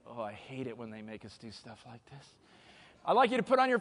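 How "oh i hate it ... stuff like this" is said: very low, hushed mock grumble; grumbled inner thought. Speaker voices what reluctant audience members think, low hushed grumble. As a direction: drop right down into a private complaint. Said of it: "I know what some of you are thinking".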